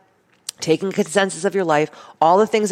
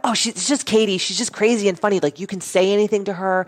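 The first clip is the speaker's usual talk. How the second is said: lightly voiced, higher breezy people talking about her; a hint of carefree gossip, a bit higher; imitating people; 3 semitones higher than usual. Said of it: "people are like".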